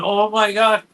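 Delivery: high, loud retold "oh my God"; near-tearful amazement. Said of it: "I'm almost crying up on the wall going".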